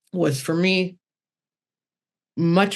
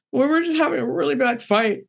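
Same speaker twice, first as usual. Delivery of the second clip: raised, higher daughter voice; daughter's voice; 9 semitones higher than usual. Retold or imitated. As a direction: lightly mimic the upset daughter, higher. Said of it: "She's like".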